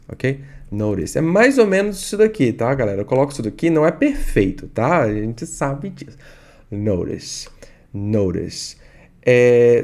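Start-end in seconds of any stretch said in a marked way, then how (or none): 0.7-1.2 American tapped T. Shown as a demonstration. Teacher repeating for students, American "Notice". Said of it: "O T tem som de R". 6.7-8.8 American tapped T. Shown as a demonstration. Teacher drilling students, American "notice". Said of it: "O T tem som de R".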